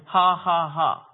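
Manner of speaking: deliberate ha ha ha; put-on laugh. Preacher acts out a man laughing at the devil, put-on laugh. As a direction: force out a steady mock laugh. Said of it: "I was putting on a laugh, just like this".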